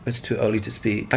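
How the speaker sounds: low, soft morning grumble; groggy and low. Real, not acted. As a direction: mumble it like you just woke up. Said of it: "I say it's too early".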